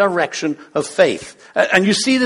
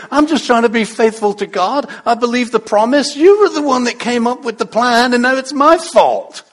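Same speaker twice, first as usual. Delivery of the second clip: raised voice, building self-defence; aggrieved protest; 5 semitones higher, 4 dB louder than usual. Acted. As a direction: protest as the unfairly blamed husband. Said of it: "poor Abram's probably thinking".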